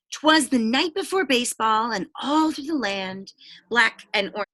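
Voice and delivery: rhyming storybook read-aloud; picture-book narration; reading to children. A narrator's reading. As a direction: lilt the rhyme for the kids. Reads rhyming book to class.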